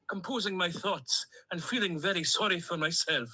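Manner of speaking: a toy duck's chatty Stornoway Scottish lilt; Stornoway accent. Acted. Duck Dougal greets Mister Booty, in a Stornoway accent. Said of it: "in my Stornoway accent".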